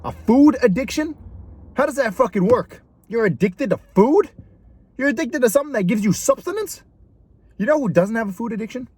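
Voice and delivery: high, mocking disbelief; incredulous. Real, not acted. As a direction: repeat "A food addiction?" with a high scoffing rise. Mocking the term food addiction.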